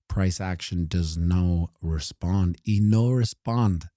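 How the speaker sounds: light mock Mexican accent; slow, lightly put-on Mexican accent. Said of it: "That's my Mexican accent".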